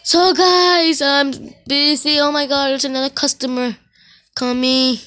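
swamped and calling out to the viewers; busy rush. Real, not acted. Telling viewers mid-rush he's busy, excited. Rushed serving customers in game.

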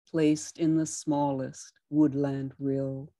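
tender poem reading; steady reading of a love poem; poetry reading. Acted. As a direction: address the water like a lover. Reads water poem aloud.

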